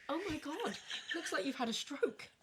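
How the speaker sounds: high, soft laughing. Real, not acted. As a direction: laugh through the words. Laughing at her whistle face.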